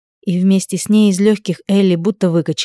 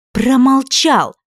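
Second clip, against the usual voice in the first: high, loud, slowed; slow furious shout with a shove; 7 semitones higher, 4 dB louder, much slower than usual. A narrator's reading. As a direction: stretch it out as you push. Shoves him on each word.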